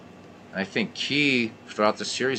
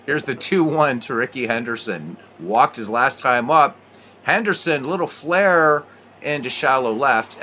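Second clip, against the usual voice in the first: play-by-play. Acted. Play-by-play commentary continues.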